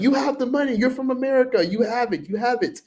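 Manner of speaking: very high, mocking squeaky vendor voice; entitled vendor. Mocking vendors who think Americans are rich, high mock voice. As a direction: ham up a greedy seller. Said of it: "they automatically start getting entitled".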